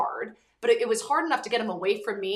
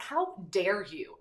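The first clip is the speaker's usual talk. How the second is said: slow, drawn-out retold indignation; indignant challenge; 3 dB quieter, much slower than usual. Teen confronting the football player, slow indignant challenge. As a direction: spell out each word, mock outrage. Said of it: "and I was like".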